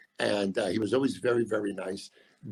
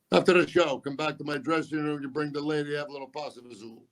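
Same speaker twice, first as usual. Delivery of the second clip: Sinatra invitation; 3 semitones higher than usual. Retold or imitated. Sinatra invites him backstage.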